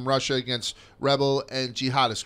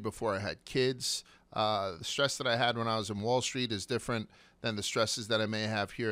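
softer, evenly paced podcast ad read; sponsor ad read; 2 semitones lower, 6 dB quieter than usual. Acted. Host pitching online therapy to listeners, sponsor ad read. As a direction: read the sponsor copy in a measured, quieter voice.

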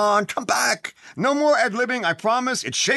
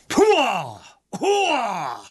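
Pacino hooah. Retold or imitated. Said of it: "I could be Pacino".

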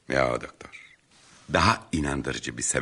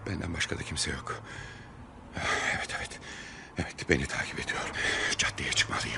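hushed, frightened inner voice; anxious whisper; 9 dB quieter than usual. Acted. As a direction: whisper fearfully to yourself. Alone, followed at night.

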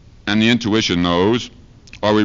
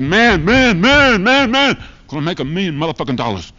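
hyped friend; 10 semitones higher, 5 dB louder than usual. Retold or imitated.

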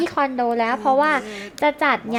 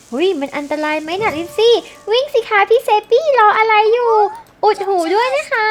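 higher, louder, urgent calls to run; excited warning shout; 7 semitones higher, 5 dB louder than usual. Acted. Player yelling at Sims to run from the fireworks, louder and higher. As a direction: yell at them to get clear of the fireworks.

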